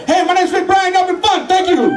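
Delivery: upbeat goodbye to the audience; closing shout-out. Real, not acted. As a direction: call it out big to the crowd. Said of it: "sign-off to crowd".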